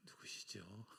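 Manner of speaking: 1 mock puzzled question. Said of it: "하고 부르는데".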